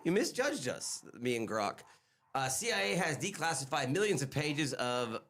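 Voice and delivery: reading out an AI answer, robot voice. Acted. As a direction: read it like a chatbot speaking, a robot voice. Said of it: "You're in the robot voice".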